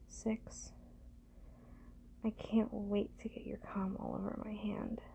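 ordinary delivery

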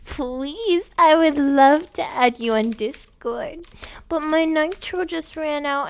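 put-on sweet, breathy e-girl act for a caller; girly gamer voice. Girl coos sweetly to Daddy on voice chat. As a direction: coo at Daddy, all sugar.

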